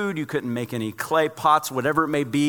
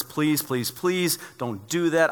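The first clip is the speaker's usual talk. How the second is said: mild begging; 4 semitones higher, much slower than usual. Retold or imitated. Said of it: "fell to the ground and says".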